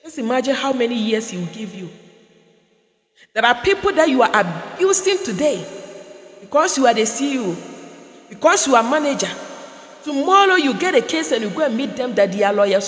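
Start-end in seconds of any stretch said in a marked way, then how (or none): 3.3-12.9 preaching. Acted. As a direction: warn them, building to a cry. Preaching warning.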